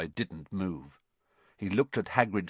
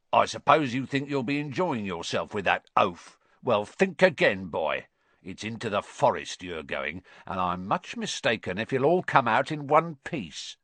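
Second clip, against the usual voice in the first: a hint of gloating menace; lightly voiced spiteful caretaker. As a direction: taunt the boy with mild relish. Filch's menacing taunt.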